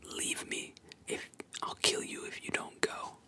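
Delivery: mild whispered yell, first words pushed; whispered mock yell. Prisoner drives the little girl away, mock whispered yell. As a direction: play at yelling while staying in a whisper. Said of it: "Zoro's yelling at her".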